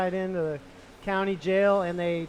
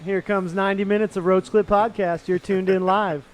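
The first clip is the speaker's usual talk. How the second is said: radio announcer voice. Acted. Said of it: "Welcome to Morning Radio".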